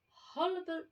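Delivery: hullabaloo jumps way up high; squeaky hullabaloo. A narrator's reading. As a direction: let hullabaloo crack upward. Rhino word, voice breaks high.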